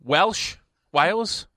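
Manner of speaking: badly faked Welsh accent; attempted Welsh accent. Radio host naming fifth place, attempting a Welsh accent. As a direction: have a rough go at Welsh. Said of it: "Can't really do a Welsh accent".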